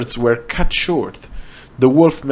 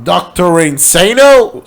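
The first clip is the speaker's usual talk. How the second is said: raised, higher calling out; a mild mock yell; mock scream; 6 semitones higher, 3 dB louder, slower than usual. A narrator's reading. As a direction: call out after him, hammed up. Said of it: "screamed Linkara".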